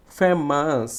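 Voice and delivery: ফেমাস with a firm "fe"; stressed first syllable. Shown as a demonstration. Teacher showing students syllable stress, strong "fe" in ফেমাস. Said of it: "জোরে উচ্চারণ করব".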